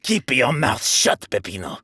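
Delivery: low, stern mob boss warning; a boss telling his lackey to be quiet, low and stern. Acted. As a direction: shut him up low and cold. Boss silencing his chatty lackey.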